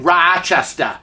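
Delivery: exaggerated Rochester accent on "Rochester", first vowel stretched. Showing viewers how locals supposedly say their city, Rochester accent. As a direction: mimic a broad Rochester accent. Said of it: "we sound like we're saying".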